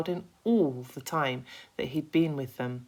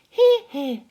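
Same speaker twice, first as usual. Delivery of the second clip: loud, higher cheer; cheering agreement; 14 semitones higher, 14 dB louder than usual. Acted. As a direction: back him up with gusto. Ladybird cheering.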